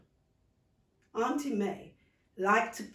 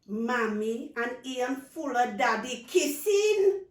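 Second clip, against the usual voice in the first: put-on child's confession; 5 semitones higher, 7 dB louder, slower than usual. Child confides secret.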